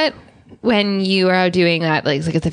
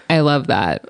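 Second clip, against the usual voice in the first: low monotone "I love that"; 5 semitones lower than usual. Shown as a demonstration. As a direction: say it in a dead monotone. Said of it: "in a very monotone voice".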